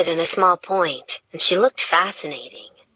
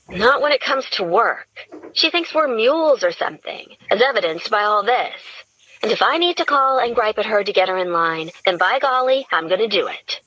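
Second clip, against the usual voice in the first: griping redhead, a little higher, annoyed; lightly voiced Gretchen; 4 semitones higher than usual. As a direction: grumble about the boss, a touch raised. Gretchen voiced, griping about boss.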